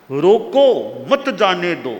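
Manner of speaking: loud रोको, then मत जाने दो as one command; pause after रोको. Shown as a demonstration. Teacher showing how a comma changes meaning, pause after रोको. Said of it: "रोको के आगे कोमा लगा दी".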